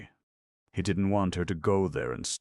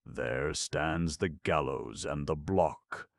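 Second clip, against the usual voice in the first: slow, solemn, as if reading scripture aloud; solemn recitation; slower than usual. A narrator's reading. Gamekeeper solemnly warning Soren of the gallows, slow and preachy. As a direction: intone it slowly like a sermon from a book. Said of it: "He spoke as if reading from a book".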